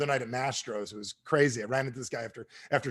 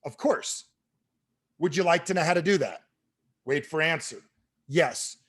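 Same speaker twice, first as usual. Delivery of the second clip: stilted recital with long gaps; mock novice sales script; clueless script reading. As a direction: read every cue aloud like a rookie. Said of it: "I literally was saying this out loud".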